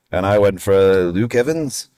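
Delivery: put-on slow, clumsy Welsh accent; bad Welsh accent. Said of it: "That was a horrible Welsh accent".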